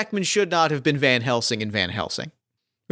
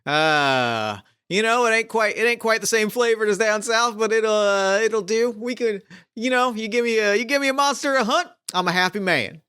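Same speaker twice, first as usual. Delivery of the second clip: a whooping swamp hunter relishing the job; eager cowboy hunter; 5 semitones higher than usual. Acted. Plays cowboy hunter William Morris.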